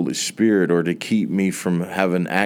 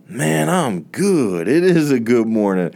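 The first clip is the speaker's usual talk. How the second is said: cheerful coworker; 3 semitones higher than usual. Retold or imitated. Coworker finally answers warmly.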